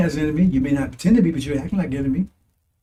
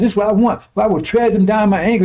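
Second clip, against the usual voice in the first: mild, raised angry quote; angry Messiah; 3 semitones higher, 3 dB louder than usual. Acted. Preacher voicing the Messiah to his listeners, angry. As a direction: speak as an angered Messiah. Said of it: "He's angry at him".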